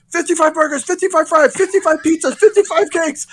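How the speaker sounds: high, loud chanted list; yelled order. Retold or imitated. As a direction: shout a huge drive-thru order. Sketch reenactment, man yelling out order.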